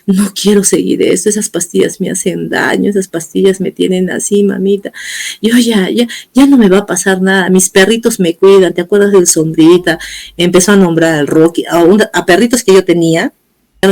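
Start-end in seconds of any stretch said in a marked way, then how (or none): 0.0-10.0 understated crying plea, retold; imitated tearful pleading. Mother retelling her crying son's plea, mildly tearful. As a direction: plead as if tearful, without real sobs. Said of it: "Él lloraba y me dice".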